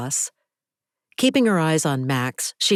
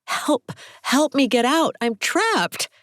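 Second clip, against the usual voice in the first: calling for help; 11 semitones higher than usual. A narrator's reading. Locked-in woman shouting for help, panicked. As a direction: call out to anyone outside the car.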